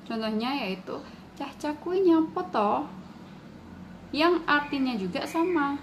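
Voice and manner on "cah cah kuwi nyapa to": higher, gentle Blitar Javanese accent; soft Blitar Javanese. Shown as a demonstration. Teacher shows students the softer Blitar accent. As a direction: ask it softly the Blitar way. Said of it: "orang Blitar biasanya berlogat lebih halus".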